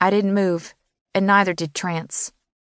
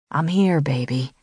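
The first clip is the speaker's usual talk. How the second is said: reassuring; 4 semitones lower than usual. A narrator's reading. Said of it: "he said reassuringly".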